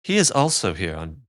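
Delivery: lightly voiced fiddler character; a hint of a character voice, falling away; the fiddler's voice. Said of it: "that is the wrong voice".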